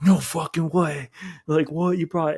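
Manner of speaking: hammed-up wide-eyed disbelief; mock amazement. Friend sees the snack bag.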